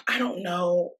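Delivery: soft, low answer after a sigh; sigh, then answer quietly as if reluctant; mock reluctance. The speaker answering the producers, mock reluctance.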